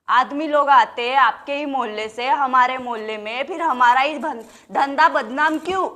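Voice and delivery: indignant challenge. Acted. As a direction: demand an answer from the crowd. Challenges crowd on stigma of trade.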